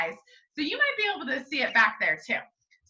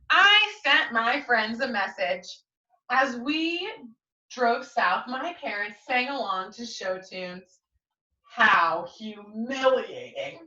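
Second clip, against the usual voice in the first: lively picture-book reading; story narration; slower than usual. Acted. Teacher reading the class a storybook, lively and clear. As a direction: read it aloud to young listeners.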